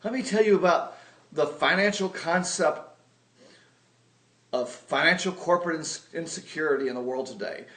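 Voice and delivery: mock alarmist sales spiel; doom-and-gloom pitch. Scaring his sister with financial doom, mock alarmist. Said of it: "by saying".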